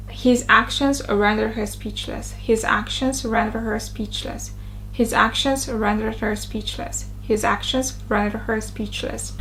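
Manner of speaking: RENDER said with a deep, rounded R; strong R drill. Shown as a demonstration. Teacher drilling a sentence over and over, deep rounded R in RENDER. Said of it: "that deep quality of the R sound".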